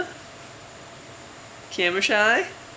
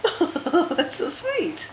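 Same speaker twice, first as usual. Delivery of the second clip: high, slow sing-song coo; 14 semitones higher, much slower than usual. Real, not acted. Mother cooing at baby.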